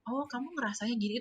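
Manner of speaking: softly voiced, understanding reflection; trained gentle intonation. Shown as a demonstration. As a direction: soften your voice as if validating a child's feeling. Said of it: "untuk bisa intonasi suara yang rendah".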